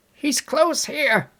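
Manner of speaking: high, loud, slow call; crying out. A narrator's reading. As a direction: call out urgently to the chasers. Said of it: "he cried".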